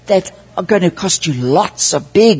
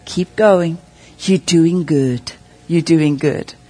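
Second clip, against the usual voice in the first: tender; 3 semitones lower, slower than usual. Retold or imitated. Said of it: "and he says".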